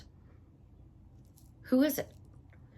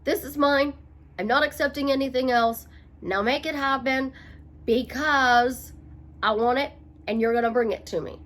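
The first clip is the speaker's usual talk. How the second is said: fight mode. Shown as a demonstration. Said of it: "you are in fight mode".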